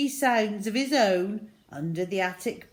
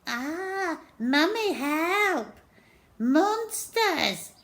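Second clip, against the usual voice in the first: high, loud teasing copy of a scared cry; mock his brother's panic; mocking mimic; 11 semitones higher, 5 dB louder, much slower than usual. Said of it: "mimicked Henry".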